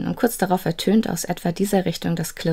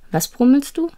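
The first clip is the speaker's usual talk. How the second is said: a touch of a smile, pitched higher; smiling; 8 semitones higher, 5 dB louder than usual. A narrator's reading. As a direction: ask gently with a smile in the voice. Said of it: "fragte Fabel lächelnd".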